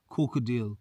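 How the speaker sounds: Corkadale. said with a firm falling tune, KOR-ka-dale; landing on the name with confidence; confident Corkadale. falling at the end; settled pronunciation. Shown as a demonstration. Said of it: "that's how we say it".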